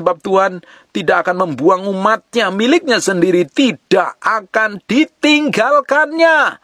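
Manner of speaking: slow solemn Bible reading; reading the verse. Shown as a demonstration. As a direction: read the verse aloud slowly and solemnly, pitch lifted. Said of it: "Di ayat yang empat belas".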